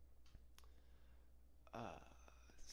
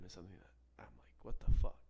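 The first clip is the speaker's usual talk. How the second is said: breathy whispered shock at what you see; hushed disbelief; 2 semitones lower than usual. Acted. Whispering to listeners about the bathroom discovery, hushed. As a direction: whisper it, building suspense.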